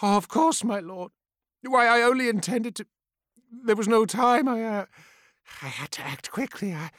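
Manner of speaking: flustered pleading. Acted. Sorcerer nervously excusing himself.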